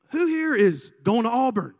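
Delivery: loud, high announcer call; rally the room like a hype man; mock emcee shout to the students; calling out to a crowd. Speaker calling out to the gym.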